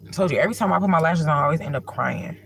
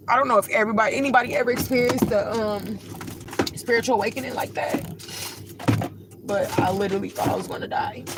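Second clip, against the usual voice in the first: high, tear-filled voice; crying; 7 semitones higher than usual. Real, not acted. Asking viewers about spiritual awakening while crying. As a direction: speak through real sobs. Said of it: "I hate when I cry".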